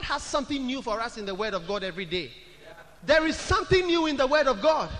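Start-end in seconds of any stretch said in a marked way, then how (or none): 3.0-4.9 preaching louder. Real, not acted. Preacher raising his voice.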